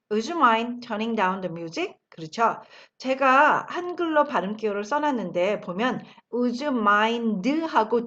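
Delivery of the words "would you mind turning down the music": very slow, every word laid out; slow model sentence. Shown as a demonstration. Teacher modelling the phrase slowly for the class. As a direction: spell it out slowly for learners to copy. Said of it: "다시 한번 할까요".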